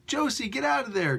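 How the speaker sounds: a light hammed-up call over the radio; radio yell. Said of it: "yells to her over the radio".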